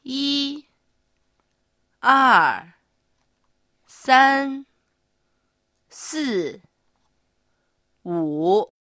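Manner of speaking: drawn-out count from 一 to 五 with long gaps; slow tone drill. Shown as a demonstration. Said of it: "今度はゆっくり一緒に". (ゆっくり声調を強調して数える)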